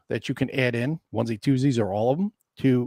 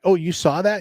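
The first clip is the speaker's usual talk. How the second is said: higher, louder feigned innocence; mock innocent; 6 semitones higher, 6 dB louder than usual. Player teases opponent about reinforcements, mock innocent. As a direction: act innocent, teasing.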